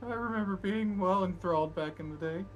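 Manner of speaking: high voice, measured and slow; high, slow NPC voice. Acted. NPC voiced by the game master.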